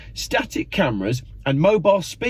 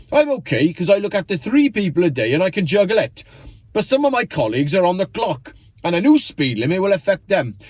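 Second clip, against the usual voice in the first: higher, lilting bad Welsh accent; terrible Welsh accent; 5 semitones higher than usual. Carer from Swansea complains about speed limit, terrible Welsh accent. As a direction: put on a badly faked Welsh accent, pitched up. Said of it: "Terrible Welsh accent there".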